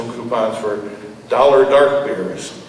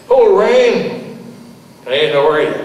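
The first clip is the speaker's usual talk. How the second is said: excited greeting; 5 semitones higher, 4 dB louder, slower than usual. Acted. Greeting Rain at bar.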